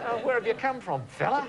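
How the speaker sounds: high-pitched send-up with a laugh in it; mock shark talk. Host sends up an embarrassing expatriate accent, high mock shark talk. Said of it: "when you hear the shark talk".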